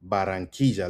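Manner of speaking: "Barranquilla" as ba-rran-KEE-ja; emphasis on KEE. Shown as a demonstration. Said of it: "Emphasis on key".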